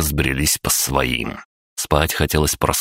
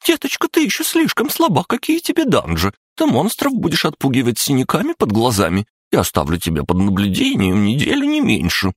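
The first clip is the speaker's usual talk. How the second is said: very high, thin, squeaky mocking voice; squeaky nurse parody; 9 semitones higher than usual. A narrator's reading. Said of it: "сделав тонкий писклявый голос, пародировала медсестру".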